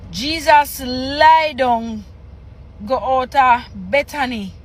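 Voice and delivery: slow, deliberate reading with pauses; reading scripture aloud. Acted. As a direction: read the patois haltingly, phrase by phrase. Reads patois scripture aloud.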